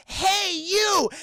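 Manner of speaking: high, loud mock call. Daughter calling out to the raptor, high and loud. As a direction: yell to get the raptor's attention. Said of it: "Jeff Goldblum's daughter goes".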